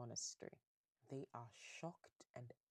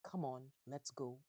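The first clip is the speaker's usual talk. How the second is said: milder quoted father's command; toned-down echo of a father's order; African father voice. Retold or imitated. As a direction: lightly imitate a firm African dad. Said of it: "in African father voice".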